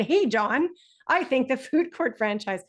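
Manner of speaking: lightly voiced student saying "Hey, John" with a small lift; a touch of casual greeting to the friend; friendly address. Shown as a demonstration. Teacher modelling a student naming his friend, mildly friendly. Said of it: "Even if he had said".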